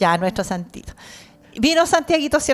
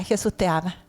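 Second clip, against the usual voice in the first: ordinary delivery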